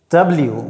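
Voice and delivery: डब्ल्यू with both lips rounded; W demo with rounded lips. Shown as a demonstration. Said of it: "दोनों को round करना पड़ता है, गोल".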